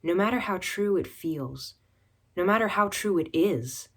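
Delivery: deliberate, emphatic recital; poetry reading. Acted. Poet warning against falling for an actor, emphatic recital. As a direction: recite it as firm advice, phrase by phrase. Reads own poem.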